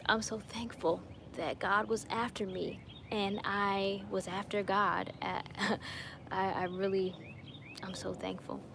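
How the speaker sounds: softly, moved with gratitude; getting emotional. Real, not acted. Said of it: "I'm getting emotional right now".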